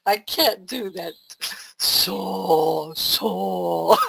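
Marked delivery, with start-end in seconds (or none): 1.8-4.0 failed sweet voice. Shown as a demonstration. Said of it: "that doesn't come out right".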